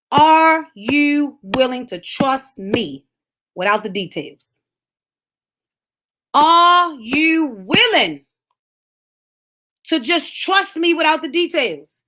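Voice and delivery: drawn-out, very slow challenge; slow searching question. Real, not acted. Preacher to congregation, very slow and searching. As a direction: stretch every word to the crowd.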